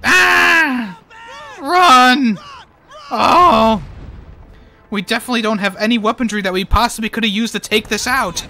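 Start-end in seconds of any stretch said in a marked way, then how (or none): 0.0-3.8 high, loud yelps of alarm; panicked mock shouting. Player reacting to the game, high panicky shouts. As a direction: yell out in short bursts.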